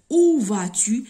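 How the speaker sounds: OÙ hit hard and loud at the start; où stressed. Shown as a demonstration. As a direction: lean on où. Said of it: "c'est ou avec accent". (insiste sur « où »)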